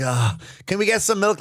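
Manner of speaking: husband mimics wife asking for milk, mock whiny; mock nagging wife. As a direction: ask for milk like a nagging spouse. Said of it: "you're like".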